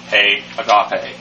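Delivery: agape said slowly and carefully; slow Greek word. Shown as a demonstration. Teacher pronouncing agape slowly for students. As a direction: sound out agape for the class. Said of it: "with the definite article".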